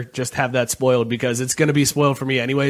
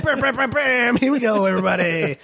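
hyped up; 6 semitones higher than usual. Acted. Hyping up the show.

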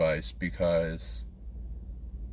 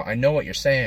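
higher, exasperated insistence; annoyed; 5 semitones higher, 4 dB louder than usual. Retold or imitated. Larry answering J B's verbal tic, annoyed. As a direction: imitate someone fed up with being asked. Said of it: "He was just, like, annoyed".

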